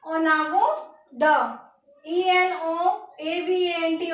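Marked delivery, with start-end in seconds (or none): 0.1-1.6 ओनावो द very slow, onaavo da, nasal o; French en avant de. Shown as a demonstration. Teacher answers her own question in slow French. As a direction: sound out ओनावो द slowly. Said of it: "French में क्या use करेंगे".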